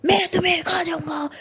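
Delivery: jump-scare roar, high and loud; sudden ghost shout. Acted. Rose jolts her friend with a loud ghost line. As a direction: burst out to startle her. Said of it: "उसके कान में ज़ोर से बोला".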